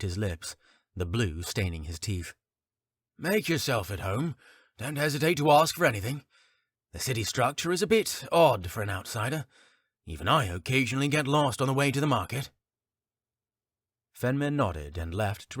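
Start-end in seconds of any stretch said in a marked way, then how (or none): 3.2-12.5 friendly barkeep. Acted. Barkeep speaks again.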